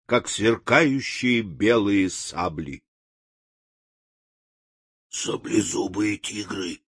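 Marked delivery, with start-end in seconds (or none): 5.1-6.8 soft, low, frightened whisper; trembling whisper. A narrator's reading. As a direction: gasp it out, shaking with fear. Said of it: "прошептал лев, дрожа как лист".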